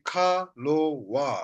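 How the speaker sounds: "ka", "lo", "wa" each separate; three syllables. Shown as a demonstration. Teacher explains to learners, three separate syllables "ka, lo, wa". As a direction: step through syllables, falling on "wa". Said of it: "three syllable".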